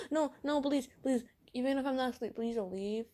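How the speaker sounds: high, urgent mock plea; begging boyfriend. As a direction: imitate a clingy boyfriend pleading. Boyfriend begs her to stay.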